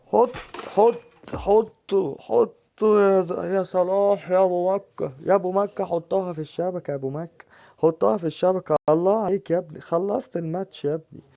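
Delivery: loud high stretched goal celebration; goal-scoring shout. Real, not acted. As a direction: roar the player home as he scores.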